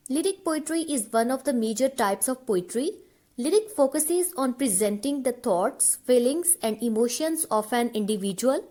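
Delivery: slow, even dictation pace; teacher dictating notes, word by word; dictation reading. Acted. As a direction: read the definition out slowly so students can write it down. Reads definition slowly for notes.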